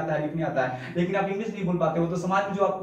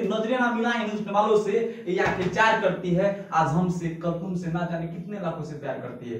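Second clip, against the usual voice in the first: recited shayari. Pretend. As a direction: recite it like a stage poet. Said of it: "बोलेंगे".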